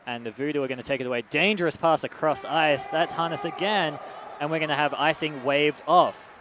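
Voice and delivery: brisk hockey play-by-play, quickening with the action; live play-by-play. Acted. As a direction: call the game as it happens.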